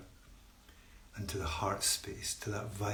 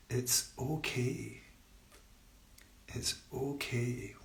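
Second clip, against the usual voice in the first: slow, soothing reassurance; self-comforting mantra; 2 semitones higher, 5 dB quieter, slower than usual. Shown as a demonstration. Meditation teacher shares a calming mantra, soothing and unhurried. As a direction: draw it out gently, as a comfort. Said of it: "this self-comforting thing".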